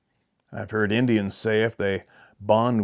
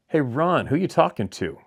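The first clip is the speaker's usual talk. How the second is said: calling out higher and louder to Ron; retold yell; 5 semitones higher, 3 dB louder than usual. Suspicious sister calling down to brother Ron, raised voice. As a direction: call out to the brother downstairs, suspicious.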